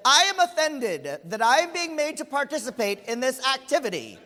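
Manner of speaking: mock-formal offended declaration; indignant child. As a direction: announce your offense with great self-importance. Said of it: "stood up and said".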